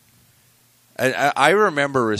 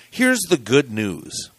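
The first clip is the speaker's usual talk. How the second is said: mock cheerful quote; 6 semitones higher, 5 dB louder, slower than usual. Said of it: "this is how they opened their article".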